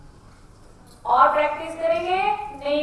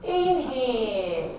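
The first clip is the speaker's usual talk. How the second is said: slow, sing-song drawn-out cues; guided breathing; 2 semitones lower, much slower than usual. Acted. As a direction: stretch each word like a long breath. Leads breathing rounds.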